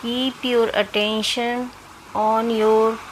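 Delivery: measured meditation voice with long pauses; guided meditation. Acted. Doctor leading listeners through self-healing meditation, measured guiding voice. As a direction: guide them in short, spaced-out phrases.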